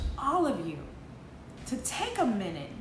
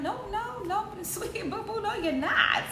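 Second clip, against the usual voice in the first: laughing no; 9 semitones higher than usual. Real, not acted. Teasing the listener after quote.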